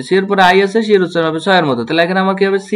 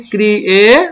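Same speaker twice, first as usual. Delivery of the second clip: first part "ক্রিয়ে" held on a rising tune; "ক্রিয়ে" drawn out, unfinished; syllable demonstration; 3 semitones higher, much slower than usual. Shown as a demonstration. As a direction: stretch "ক্রিয়ে" upward and leave it hanging. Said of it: "তাহলে এটা দাঁড়াচ্ছে কি?".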